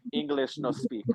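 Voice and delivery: hushed broken English; mock broken English. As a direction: feign you can't speak English, hushed. Playing dumb foreign tourist.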